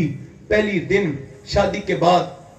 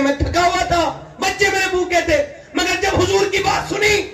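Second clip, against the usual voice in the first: much higher, impassioned cry; high, ringing preacher's shout; fervent preaching shout; 12 semitones higher than usual. Acted. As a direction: cry it out to the congregation. Preacher at full force.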